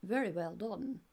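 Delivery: lightly imitated posh English accent; a hint of a royal posh voice. Mother retelling praise of her child, mild posh imitation. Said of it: "in his very posh voice".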